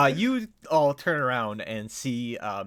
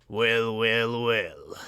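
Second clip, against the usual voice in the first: deep gravelly villain; 5 dB louder, much slower than usual. Acted. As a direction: gravelly voice trailing down low. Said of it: "a deep kind of, uh, gravelly, uh, voice".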